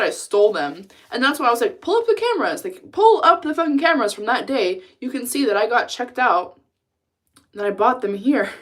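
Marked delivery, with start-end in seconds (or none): 1.8-8.5 mock indignant demand. Retold demand to Best Buy clerk.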